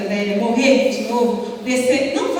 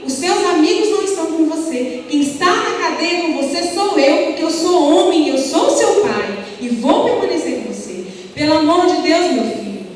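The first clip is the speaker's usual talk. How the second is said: desperate father; 3 semitones higher than usual. Retold or imitated. Father tells his arrested son to be a man, pleading. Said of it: "E ele falava".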